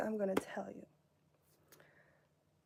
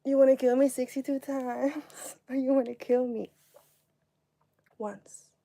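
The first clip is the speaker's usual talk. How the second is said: incredulous retort; 5 dB louder than usual. Retold or imitated. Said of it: "And I'm like".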